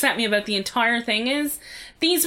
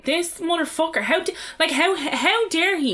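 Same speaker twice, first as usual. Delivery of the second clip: retold indignation; 4 semitones higher than usual. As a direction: replay your outrage, pitched up. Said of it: "I was pretty angry about it".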